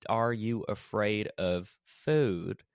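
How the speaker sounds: slow, homely Southern drawl; homely Southern accent. Retold or imitated. TV host feigning care to a guest, homely Southern accent. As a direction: imitate a folksy Southern TV host, drawn out. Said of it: "homely Southern accent".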